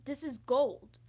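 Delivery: excited bursts, loud on key words. Real, not acted. Vlogger thrilled that the lesson is gold, excited. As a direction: get carried away by your own insight. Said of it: "Sorry, I got excited".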